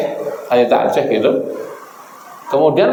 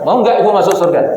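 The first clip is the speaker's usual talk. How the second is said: high, rising challenge to the crowd; calling out; 4 semitones higher than usual. Real, not acted. Preacher challenging the women in the audience, calling out. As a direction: fire the question at the women.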